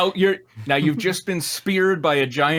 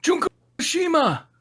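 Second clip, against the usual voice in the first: shouting; 13 semitones higher than usual. Acted. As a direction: yell the name across the fight. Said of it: "Damien shouted".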